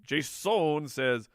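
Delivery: "Jason" stretched slowly with a big O; slow, drawn-out "Jason". Shown as a demonstration. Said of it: "It's got a big O in there".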